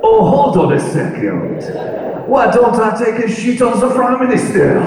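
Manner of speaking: the pigeon hits on a cheeky plan; mischievous pigeon voice breaking into a laugh; pigeon's bright idea. Acted. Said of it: "a French pigeon ... going".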